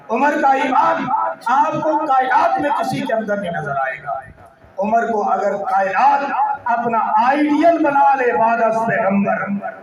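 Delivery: impassioned oratorical praise; full-force preaching. Real, not acted. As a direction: press each claim on the congregation emphatically.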